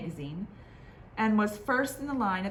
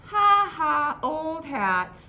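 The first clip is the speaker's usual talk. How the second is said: mocking taunt; 10 semitones higher, 8 dB louder, much slower than usual. Others tease Harbert.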